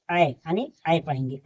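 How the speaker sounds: the vowel "ऐ" said open and clear, then repeated; sound of ऐ. Shown as a demonstration. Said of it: "ऐ का उच्चारण होगा". (ऐ का साफ़ उच्चारण)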